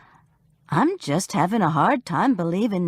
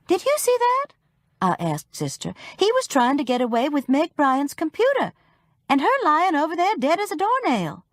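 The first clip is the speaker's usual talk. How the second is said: indignant; 9 semitones higher than usual. A narrator's reading. Indignant aside to Sister.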